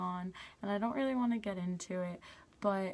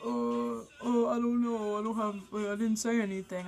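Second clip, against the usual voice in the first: stammering, caught-out denial, slightly higher; mock him fumbling for excuses; flustered ex-boyfriend; 3 semitones higher, 3 dB louder than usual. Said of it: "And he was like".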